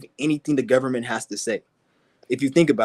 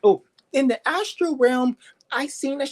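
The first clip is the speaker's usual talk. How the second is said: mock a spacey astral believer; mock dreamer; 10 semitones higher than usual. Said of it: "Don't sit there and bring that".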